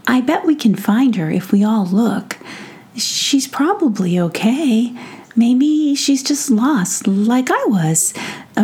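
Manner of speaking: put-on a kind kid soothing a friend; comforting child voice. Sander comforts prince.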